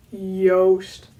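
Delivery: Joost said yoast, J like in yolk; Dutch pronunciation. Shown as a demonstration. Teaching viewers the name, Dutch pronunciation. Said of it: "but, like, egg yolk".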